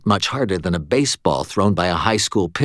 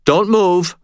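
commanding; 10 semitones higher, 5 dB louder than usual. A narrator's reading. Robber orders cashier.

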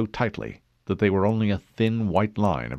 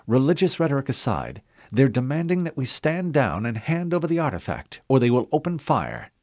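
lightly voiced AI, a little higher; ship's AI; 5 semitones higher than usual. Cortana relaying the enemy ultimatum to the admiral, crisp. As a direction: report crisply like a ship's computer.

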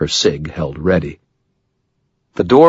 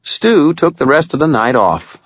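higher, breezy friendly remark; amiable; 9 semitones higher, 4 dB louder than usual. A narrator's reading. Wizard surprises Maroon at gunpoint, amiable. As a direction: toss it off amiably. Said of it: "I said amiably".

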